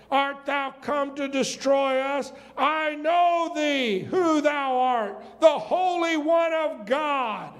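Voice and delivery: slow, weighty demon's cry; slow, rising demon proclamation; dramatic scripture reading. Acted.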